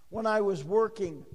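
emphasize the word "working"; stress on WORKING. Shown as a demonstration. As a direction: lean firmly on "working". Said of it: "emphasis on the word working".

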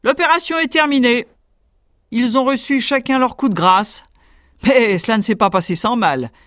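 hammed-up proud hero; bragging tailor. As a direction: show off to the riders. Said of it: "leur dit".

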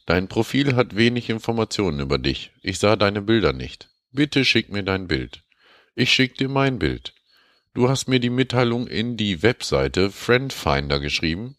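high, sugary mock voice for a dating-scam mail; reading as scam woman. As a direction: read it as a coy stranger writing in broken German. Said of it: "Und zwar schreibt sie".

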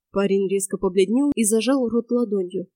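ordinary delivery

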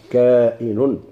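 "كائن" slowly, long kaa then a hamza syllable; "كائن" carefully spaced, on the pattern of qaadi; variant pronunciation. Shown as a demonstration. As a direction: draw out the first vowel of "كائن". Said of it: "كقاضي".

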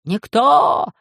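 high, loud cry of agreement; shouted. Acted. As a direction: nobles shouting over each other. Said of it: "закричали".

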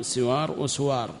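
"سوار" first with kasra as siwar, then "وسوار" with damma as wa-suwar; two vowelings of the sin. Shown as a demonstration. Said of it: "لغتان في السين".

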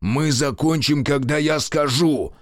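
резкий окрик генерала; рявкни, медленно и властно; рявкнул. Acted. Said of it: "рявкнул генерал". (властный окрик)

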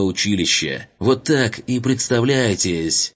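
lightly voiced sneering officer, rising at the end; haughty colonel voice. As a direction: look down on him, a hint of a pompous colonel. Haughty colonel lecturing cadet.

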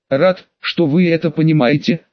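a touch of creak, calm and cold; creaky voice. Acted. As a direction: speak with a slight creaky rasp. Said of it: "вновь заговорил скрипучим голосом".

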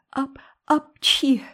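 a stuttering sneeze, caught and then let go, slow; drawn-out sneeze. A narrator's reading. Anne scolds Hazel, then a halting, slow sneeze. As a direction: Anne fights a sneeze and loses. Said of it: "и чихнула".

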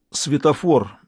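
usual speaking voice

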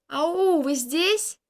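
loud hallo into the distance; calling out loud. Acted. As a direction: call out as if searching. Calling out in empty yard. (громко аукает)

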